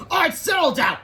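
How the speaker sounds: high, loud classroom order; strict teacher raising her voice high; teacher's shout. A narrator's reading. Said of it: "shouted Miss Ribble".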